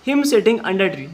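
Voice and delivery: very slow, word by word English; slow dictation. Shown as a demonstration. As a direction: spell it out slowly for the class. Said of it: "ठीक है।". (धीमे-धीमे बोलकर लिखवाना)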